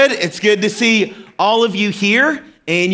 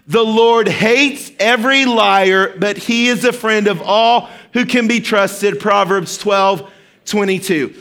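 slow, deliberate group recitation; slower than usual. Shown as a demonstration. Pastor leading the congregation in a slow, emphatic verse recitation. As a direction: lead the church through it word by word. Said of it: "Okay, one more time".

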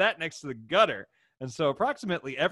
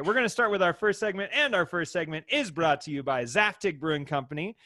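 sponsor plug; 4 semitones higher, 4 dB louder than usual. Acted. Reads out the brewery sponsor.

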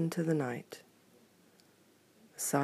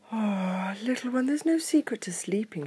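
mother bear voice; 7 semitones higher, 5 dB louder than usual. Acted. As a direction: gently voice the mama bear. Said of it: "she said".

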